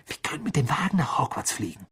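put-on boy eagerly pitching his flying-car plan; excited. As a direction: rush it out, carried away by the idea. Ron thrilled by his plan.

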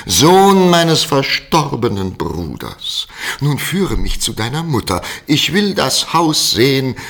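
high, loud overjoyed cry; calling out. Acted. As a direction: hail him like a long-lost uncle. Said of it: "und rief".

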